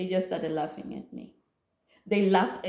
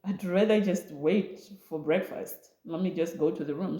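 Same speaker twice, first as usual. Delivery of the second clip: softer, quick and deflated; refusing dinner, quiet and hurt; hurt withdrawal; 3 dB quieter than usual. Retold or imitated. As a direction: mutter it wanting to leave. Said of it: "I was like".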